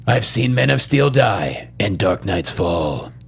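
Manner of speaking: slow, low retake ending "fall"; dramatic line reading. Shown as a demonstration. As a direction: read it slowly, landing on "fall". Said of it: "Let me do it again".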